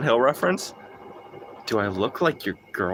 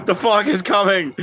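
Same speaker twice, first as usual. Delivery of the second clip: laughing; 8 semitones higher, 3 dB louder than usual. Acted. Laughing, mock-spooky fog warning.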